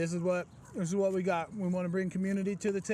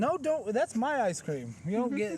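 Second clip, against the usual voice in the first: playful possessive; 5 semitones higher than usual. Pretend. Joking claim over ice cream.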